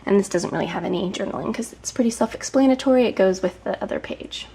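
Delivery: slightly out of breath while talking; a little breathless, pregnant and tired. Real, not acted. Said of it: "If I sound a little out of breath".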